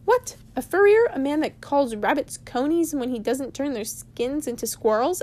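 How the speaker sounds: high shocked yelp, then rushed question; shocked Bilbo. Acted. Bilbo to Gandalf, shocked high squeak.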